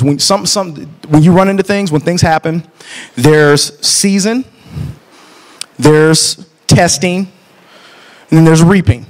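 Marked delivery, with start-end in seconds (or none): 3.1-9.0 season, testing, reaping, each drawn out slowly; slow preaching. Acted. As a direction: lay out each word slowly like a pulpit point. Preaching a three-part point.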